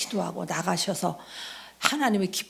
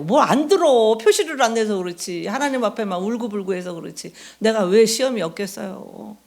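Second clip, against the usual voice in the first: emphatic loud reply; 2 semitones higher, 6 dB louder than usual. Retold or imitated. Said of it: "이래요".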